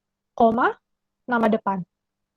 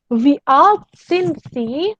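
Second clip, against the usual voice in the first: slow model question; 3 semitones higher, much slower than usual. Shown as a demonstration.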